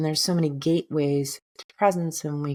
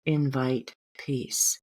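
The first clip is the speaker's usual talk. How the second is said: affirmation; slower than usual. Shown as a demonstration. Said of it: "This is".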